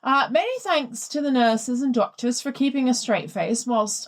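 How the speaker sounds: put-on reading a listener's letter in a light posh English accent; plummy English voice, lightly put on. Host reads the listener's letter to her co-host, light posh English accent. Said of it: "I can only do posh".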